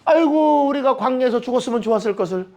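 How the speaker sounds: hammed-up complaint; mock lament. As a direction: groan like someone bemoaning their lot. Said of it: "원망하는 생각을 갖고".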